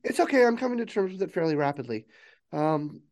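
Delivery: high, quick reassurance; acted hurried coping, pitch starting way up; flustered AI. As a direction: rush to sound fine. AI reassures crew while overwhelmed.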